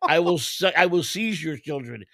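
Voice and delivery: mock Indian accent. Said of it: "You went to a wannabe Indian voice".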